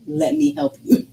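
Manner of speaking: high mock-sweet offer of help; mocking Dom. Wife mimicking husband's fake helpfulness, high and mocking. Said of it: "Dom being like".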